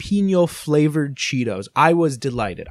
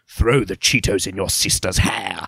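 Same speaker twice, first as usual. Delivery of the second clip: put-on voice dropped very deep, British accent; 9 semitones lower than usual. Friends joke about a mascot encouraging mischief, doing a deep British Chester Cheetah voice. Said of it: "he has this very deep yeah. British voice".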